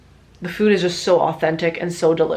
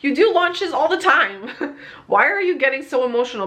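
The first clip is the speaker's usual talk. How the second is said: higher-pitched, laughing talking-to; mock self-scolding; 6 semitones higher than usual. Host teasing herself for crying over a launch, mock scolding. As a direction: jokingly tell yourself off, higher and incredulous. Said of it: "I'm like".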